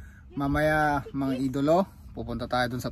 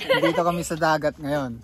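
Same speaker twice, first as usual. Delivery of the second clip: laughing while talking; 3 semitones higher, 4 dB louder than usual. Real, not acted.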